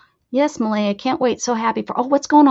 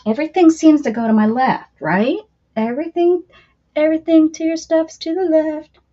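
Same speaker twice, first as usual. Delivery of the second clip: exasperated; 4 semitones higher, 6 dB louder than usual. Real, not acted. Complaining loudly.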